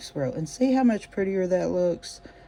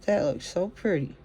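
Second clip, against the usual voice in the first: talking around a stitch marker; something held in the mouth; mouth full. Real, not acted. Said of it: "I had a stitch marker in my mouth".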